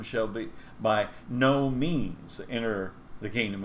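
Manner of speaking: slow and grave, weight on "no"; solemn warning. Shown as a demonstration. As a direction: press down on "by no means". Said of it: "Jesus warns".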